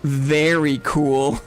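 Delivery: slow, patient mom imitation on "very cool"; gently drawn-out motherly reassurance; lightly voiced mom; slow mom reply. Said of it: "she was like".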